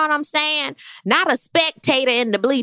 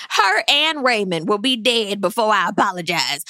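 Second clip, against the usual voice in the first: mocking Gizelle; 2 semitones lower than usual. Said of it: "Gizelle was like".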